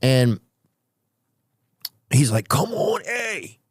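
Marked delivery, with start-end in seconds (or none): 2.5-3.6 high, coaxing mock drunk guy; tipsy New Yorker calling. Drunk stranger coaxing comedian into the party. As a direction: wave him over, lightly voiced.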